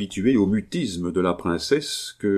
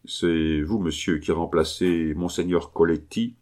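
grave voice. Acted. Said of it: "d'une voix grave".

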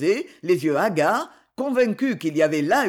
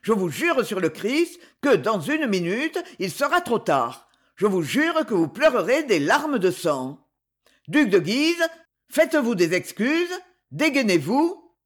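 roaring threat; 3 semitones higher than usual. Acted. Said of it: "rugit-il".

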